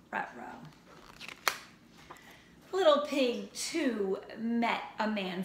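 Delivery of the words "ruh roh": comic uh-oh. Acted. Teacher's comic uh-oh.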